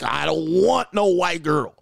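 slow, drawn-out protest; hammed-up struggling denial; mock straining denial. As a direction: drag it out as if sweating bullets. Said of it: "you just sweating bullets like".

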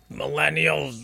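hammed-up fuming older person; mock mad elder. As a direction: rage at the young, play-acted. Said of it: "It's so mad".

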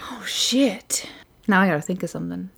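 hushed panicked whisper. Real, not acted. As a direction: whisper it under your breath. Put on the spot for safe word.

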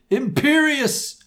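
high, slow, drawn-out spell cry; villain's shout. Acted. Voldemort casting on the heroine, a hammed-up high shout. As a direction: fling the curse out like a villain. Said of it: "Voldemort shouted".

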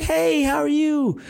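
mock-sweet girl saying hi; imitating the girl. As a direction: put on a sweet high girl's voice, drawn out. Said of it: "She's like".

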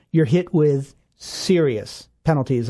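slow, with "serious" weighted; deliberate stress on "serious penalties". Real, not acted. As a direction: lean on "serious" to warn them. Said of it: "I emphasize that word serious".

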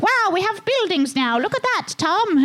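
high-pitched, wide-eyed wonder, hammed up; mock amazement. Townsperson showing Tom the new buildings, mock amazed. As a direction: play an awestruck townsperson, voice way up.

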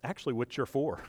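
God pressing Samson, building to a call; God's voice. Retold or imitated. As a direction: voice of God rising to a loud, high urging. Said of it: "God's trying to teach him".

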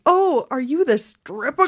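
lightly acted eager cry; retold excited shout. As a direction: imitate an excited party guest calling out. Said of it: "and someone shouted".

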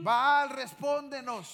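slow called-out plea to Baal; drawn-out cry to a silent god; mock pagan shout. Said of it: "a gritar".

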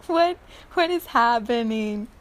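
playful mock panic; bewildered mind. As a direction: act out a mind that has lost the plot. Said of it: "Our minds are going".

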